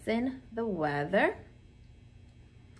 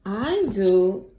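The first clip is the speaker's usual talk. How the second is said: put-on boy's eager shout, louder; 6 dB louder than usual. A narrator's reading. Ted shouts his answer about the rain. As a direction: call it out like an excited kid. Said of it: "shouted Ted".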